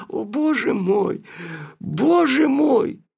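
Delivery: slow, high anguished cry to God; despairing cry. Acted. Nastenka cries out in despair, slow and loud. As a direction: let it break out of her, drawn-out and loud.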